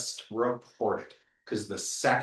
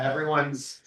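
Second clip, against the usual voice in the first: sarcastic; 2 semitones higher than usual. Real, not acted. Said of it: "I'm being sarcastic about that".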